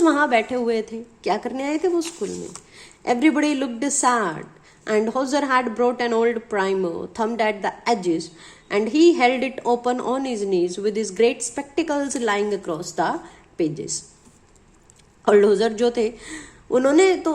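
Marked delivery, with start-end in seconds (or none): 3.1-13.9 slow, measured reading; deliberate textbook read-aloud, word by word; read-aloud lesson text. A narrator's reading. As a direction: read it out slowly for a class.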